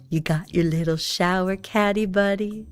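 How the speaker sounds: mock-gentle checking. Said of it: "bring him to the showers and go".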